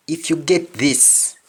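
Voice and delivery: unvoiced whisper; hushed teacher whisper. Real, not acted. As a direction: lean in and whisper. Whispered aside in lesson.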